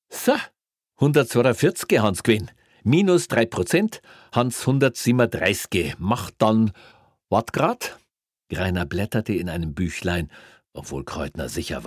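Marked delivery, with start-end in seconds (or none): 0.1-8.0 brisk, high, loud officious policeman; smug Bavarian cop. Acted. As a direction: rattle off the fine, enjoying it. Greiner voiced in story.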